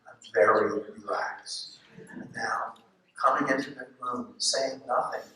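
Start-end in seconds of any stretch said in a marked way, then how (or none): 0.1-1.8 relaxed. Shown as a demonstration. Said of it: "For those of you in the back who can't see me".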